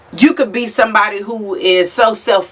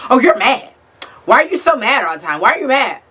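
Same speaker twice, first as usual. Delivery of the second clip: mocking whiny accuser; 3 semitones higher, faster than usual. Mimicking people who call her mad.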